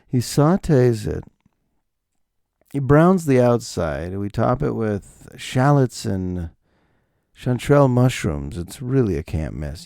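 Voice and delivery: a hushed, refined waiter. Retold or imitated. Waiter recommending the beagle to him, lightly voiced refined waiter. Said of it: "And he goes".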